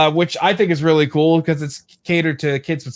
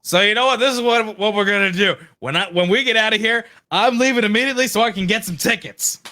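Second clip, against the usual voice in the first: higher-pitched, eager declaration; excited resolve; 5 semitones higher than usual. Real, not acted. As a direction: announce the plan with rising urgency. Excited plan to buy tickets.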